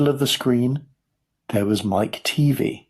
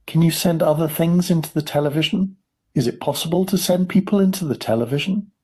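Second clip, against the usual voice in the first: high, excited questioning; eager boy's shout; 8 semitones higher, faster than usual. A narrator's reading. Boy asking about television, mild eager shout. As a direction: ask urgently, pitched up. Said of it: "shouted Mike T V".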